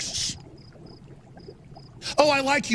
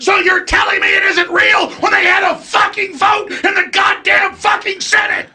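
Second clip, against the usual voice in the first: furious yelling, higher and louder; angry shout; 6 semitones higher, 3 dB louder than usual. Real, not acted. The speaker yelling at Joe about the Senate vote, furious shout. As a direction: rage at him over the vote.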